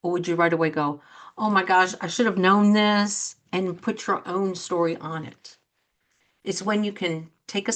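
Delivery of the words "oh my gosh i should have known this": louder, rushed panic at the news; imitating a panicked friend; flustered oh my gosh. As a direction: blurt it out as if caught off guard. Panicked reaction to loved one.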